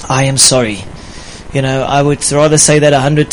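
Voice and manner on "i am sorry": sincere apology. Shown as a demonstration. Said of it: "That can save your marriage".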